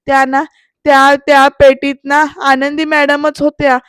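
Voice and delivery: mock-fearful halting confession, still loud; scared, hesitant. Peon confesses to Shirke, mildly scared and halting. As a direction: stumble into the admission with nervous repeats. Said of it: "असा हळू घाबरत घाबरत म्हणतो".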